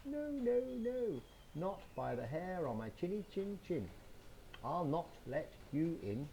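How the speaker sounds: a tiny pig squeaking no; little piggy. Acted. First little pig refuses the wolf in a squeaky high voice. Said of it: "the first little piggy says".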